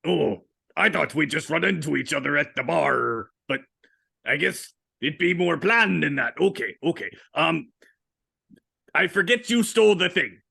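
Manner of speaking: lightly voiced pirate captain; old pirate captain. Old captain offering his crew, in pirate voice. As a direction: play an easygoing old sea captain.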